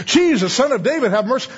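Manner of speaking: lightly mocking, insincere plea; mock religious pretense. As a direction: imitate someone reciting a borrowed religious phrase. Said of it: "is religious pretense".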